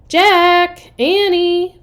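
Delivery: high, loud call. Acted. Mom calls the children a second time. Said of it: "their mom called again".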